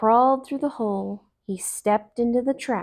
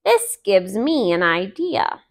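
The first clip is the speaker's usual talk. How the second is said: Brer Fox; 4 dB louder than usual. Acted. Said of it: "said Brer Fox".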